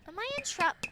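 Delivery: small high voice, drawn-out hello; sheepish greeting. Real, not acted. Sister caught out by her brother, high sheepish voice. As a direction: ask it like a caught little sister.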